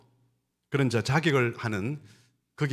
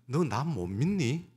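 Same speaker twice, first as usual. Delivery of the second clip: the Lord asking; 5 semitones higher than usual. Acted. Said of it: "우리 주님은 반대로 질문하십니다".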